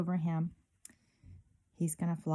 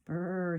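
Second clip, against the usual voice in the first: shiver; 3 semitones lower than usual. Acted. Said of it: "see him shivering?".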